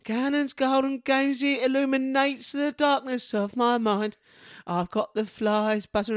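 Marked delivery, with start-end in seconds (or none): 0.1-4.2 slow, grand announcer voice; slow dramatic announcer. Acted. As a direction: announce it like a movie trailer. Announcer voice for segment.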